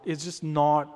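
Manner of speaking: ordinary talk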